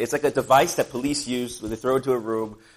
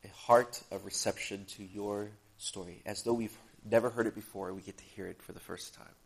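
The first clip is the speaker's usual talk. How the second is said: measured prayer, easing down at the end; 4 semitones lower, 6 dB quieter than usual. Acted. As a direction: lead the congregation in simple prayer. Leads opening prayer.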